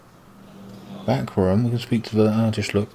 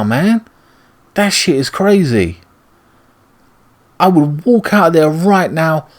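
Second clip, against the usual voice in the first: heated rant; 6 semitones higher than usual. Real, not acted. Ranting angrily at game character.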